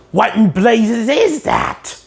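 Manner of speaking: slow, drawn-out sea-captain query; puzzled Mr. Krabs. Retold or imitated. Mr. Krabs staring at the spatula, slow and baffled. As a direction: draw it out, baffled.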